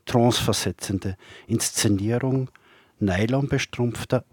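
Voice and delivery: measured poem recital with long pauses; poetry reading. Acted. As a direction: recite poems line by line, letting each phrase stand. Reads own poems aloud.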